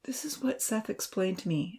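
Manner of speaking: soft, gently assertive; quietly firm and kind; gentle. Acted. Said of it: "Evan asserted gently".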